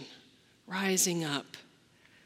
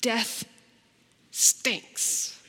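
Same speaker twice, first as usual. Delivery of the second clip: quiet blunt statement. Shown as a demonstration. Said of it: "I want to say that".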